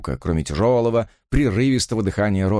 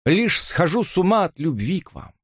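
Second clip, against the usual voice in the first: passionate; 9 semitones higher than usual. A narrator's reading. Robert's passionate confession.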